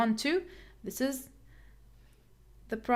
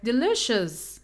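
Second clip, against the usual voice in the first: "delicious" said with LI stressed, as de-LISH-us; de-LI-cious, second syllable from the end stressed. Shown as a demonstration. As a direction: model "delicious" for learners, punching the middle syllable. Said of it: "The stress is here".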